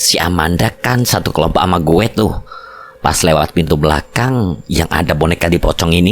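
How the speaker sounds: deep bass voice. Acted. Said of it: "suara bassnya tidak sengaja terdengar".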